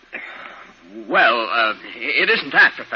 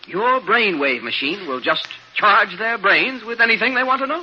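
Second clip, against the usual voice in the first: growing excitement; 9 semitones higher than usual. Acted. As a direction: let the wonder build word by word. Assistant dreams of machine's promise.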